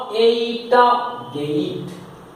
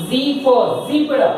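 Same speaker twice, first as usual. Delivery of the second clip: slow demo; 3 semitones higher, slower than usual. Shown as a demonstration. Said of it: "आपको क्या पढ़ाया?".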